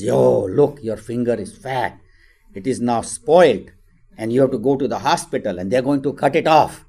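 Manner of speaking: loud mock-scary taunt from an older brother; teasing big brother. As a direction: frighten the little one playfully, punching words loud.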